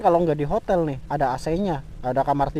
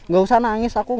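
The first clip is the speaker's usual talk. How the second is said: angry snap; 4 semitones higher, 4 dB louder than usual. Acted. Tells crying girlfriend to stop.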